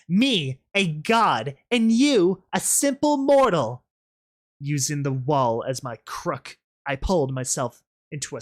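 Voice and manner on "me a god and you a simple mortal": loud, climbing high with grand scorn; mocking. Rainbow Dash gloating over the fallen rebel, mocking. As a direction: gloat like a god over a mortal. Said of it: "Rainbow Dash's mocking response".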